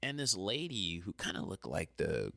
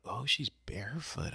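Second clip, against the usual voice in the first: shocked whisper; 4 semitones higher than usual. Retold or imitated. Realizing something shocking at crosswalk.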